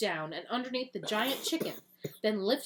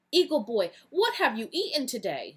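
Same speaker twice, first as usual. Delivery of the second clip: loud concerned question; worried farmer; 3 semitones higher, 5 dB louder than usual. Acted. Miss Green questioning the weakened hero, concerned. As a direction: ask him urgently what he ate. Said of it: "she asked".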